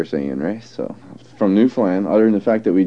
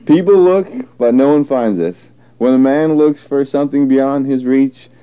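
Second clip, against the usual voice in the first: careful, measured read-aloud voice; 4 semitones higher, 4 dB louder than usual. Acted. For a dialect archive recording, reading the rainbow passage aloud. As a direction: read the set passage clearly and deliberately.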